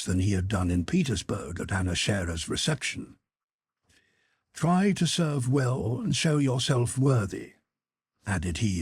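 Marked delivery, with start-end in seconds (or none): 4.5-7.5 severe. Acted. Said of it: "addressing Boris with severity".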